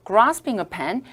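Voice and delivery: grasping said the British way, broad a; British grasping, long ah; British accent. Shown as a demonstration. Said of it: "영국식 발음". (영국식 발음의 grasping)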